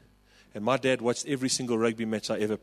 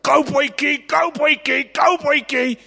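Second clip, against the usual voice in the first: repeated cheer, much higher and louder; sideline cheer; 10 dB louder, slower than usual. Retold or imitated. Dad on the touchline cheering his son, loud repeated chant.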